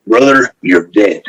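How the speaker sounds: lightly voiced wrestler threat, drawn out; slow, mock-menacing phone threat; Macho Man. Macho Man answering the apology call, slow mock threat. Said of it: "So he calls Macho Man".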